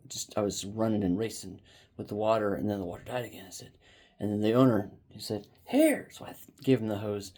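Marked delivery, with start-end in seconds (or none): 5.7-6.1 very high, brief call; retold call-out. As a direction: imitate the owner calling for the hose. Retold owner calling for hose.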